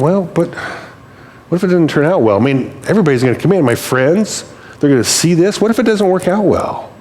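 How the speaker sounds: imitating mounting self-doubt, pitch climbing; worried. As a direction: act out a friend talking himself out of it. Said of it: "He was afraid".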